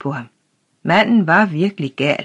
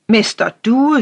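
higher and louder, wide-eyed alarm; shocked shout; 7 semitones higher, 6 dB louder than usual. A narrator's reading. Old official shouts the name in wide-eyed shock. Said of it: "råbte justitsråden med opspilede øjne".

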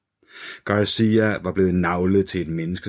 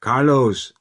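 high, louder shout of the name; detective shouting at his unresponsive partner, louder; shouted again; 6 semitones higher, 6 dB louder than usual. A narrator's reading. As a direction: yell it to get a reaction. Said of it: "råbte Hunter igen".

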